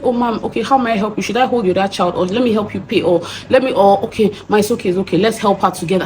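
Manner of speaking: a touch of soothing stranger; gentle offer of help. Retold or imitated. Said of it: "you could have just said".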